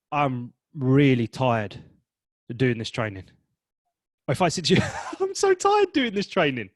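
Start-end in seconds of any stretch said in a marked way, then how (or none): 0.1-3.3 slow, drained really tired; worn-out weary. Shown as a demonstration. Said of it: "the second one is, that's happy". 5.2-6.7 very high, loud, cheerful tired; mismatched cheerful; upbeat wrong tone. Shown as a demonstration. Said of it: "that's happy and that's upbeat".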